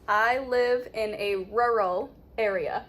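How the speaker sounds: careful teacher's sentence with a clear "rural"; model sentence. Shown as a demonstration. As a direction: model "rural" inside the sentence, each word distinct. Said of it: "let's put it into a sentence".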